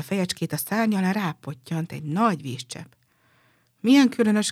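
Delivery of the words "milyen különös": higher and louder, a startled cry; surprised exclamation. A narrator's reading. The swallow, startled by a drop on its head, cries out in surprise. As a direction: cry out at the sudden raindrop. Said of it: "kiáltott fel".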